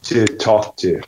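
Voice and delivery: learner echoing in Scottish; Scottish accent. Shown as a demonstration. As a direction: repeat it carefully in Scottish. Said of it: "You're Scottish all the way through".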